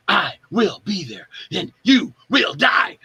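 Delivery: halting, hammed-up starship captain delivery; Captain Kirk. Actor pitching a killer role to the director, hammy captain impression. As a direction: break the line up, then stretch out the threat. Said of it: "doing my best Captain Kirk impression".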